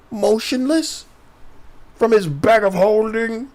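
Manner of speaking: high, mocking disbelief; incredulous. Real, not acted. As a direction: echo it in disbelief. Incredulous echo.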